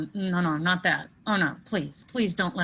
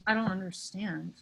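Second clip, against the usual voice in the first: usual speaking voice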